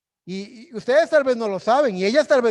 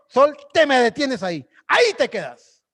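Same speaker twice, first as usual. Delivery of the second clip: loud, higher bold command; 5 semitones higher, 4 dB louder than usual. Retold or imitated. Joshua boldly commands the sun to stand still, loud. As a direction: order the sun to stop.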